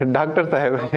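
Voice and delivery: डॉक्टर as "daak-tar", said through a laugh; amused mispronunciation. Retold or imitated. Teacher mimicking many people, laughing on "daaktar" for डॉक्टर. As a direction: chuckle while saying डॉक्टर with "aa" and r. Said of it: "बहुत सारे लोग तो इसको कहते थे".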